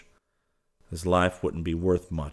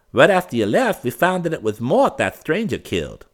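higher nephew, "Mort" falling; nephew explaining; 11 semitones higher, 8 dB louder than usual. A narrator's reading. Wally tells his uncle who died. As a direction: rattle off the news. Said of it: "explained the well-dressed one".

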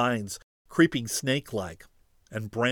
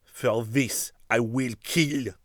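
thick voice; slower than usual. Acted. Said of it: "He said thickly".

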